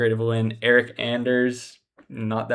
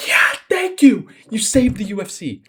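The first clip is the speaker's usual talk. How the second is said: retold cheering; 8 semitones higher, 4 dB louder than usual. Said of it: "I was like".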